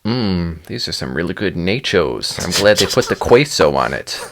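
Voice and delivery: mock "nachos" and "queso" as a non-Spanish speaker would say them; non-Spanish mispronunciation. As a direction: clumsily anglicize "nachos" and "queso" for a joke. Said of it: "clearly not actually speaking Spanish".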